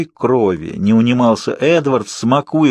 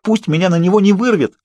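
wailing plea; 9 semitones higher than usual. Acted. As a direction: plead in a rising wail. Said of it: "моих воплей".

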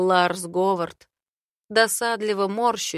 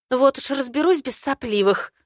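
sharp retort, louder; snapping back; 5 semitones higher, 5 dB louder than usual. Acted. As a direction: snap back at her. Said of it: "огрызается Ри".

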